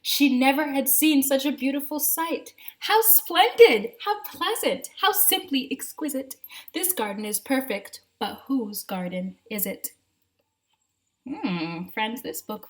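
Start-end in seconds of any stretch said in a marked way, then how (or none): 2.8-9.9 delighted exclaiming. Acted. Mrs McGee admiring the garden.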